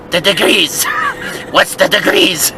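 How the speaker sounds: lightly voiced Turkish-accented insistence; imitated Turkish accent. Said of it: "he had a little accent".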